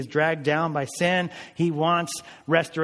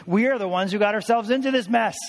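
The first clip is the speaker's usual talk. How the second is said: higher and louder insistence; emphatic; 7 semitones higher, 4 dB louder than usual. Real, not acted. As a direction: drive home our guilt. Preacher emphatic.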